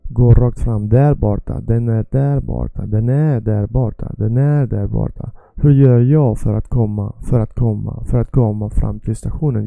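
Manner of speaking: measured teacher readout; model sentence reading. Shown as a demonstration. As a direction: read each phrase out clearly for learners.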